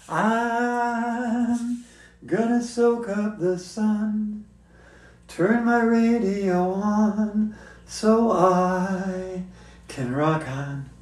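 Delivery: a hint of a playful dog voice; lightly voiced dog poem; reciting as a dog. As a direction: recite it like a happy pup. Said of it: "recite a poem I wrote called Fetch".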